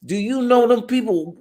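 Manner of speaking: mock the awkward caller; mocking bad script. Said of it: "The script said".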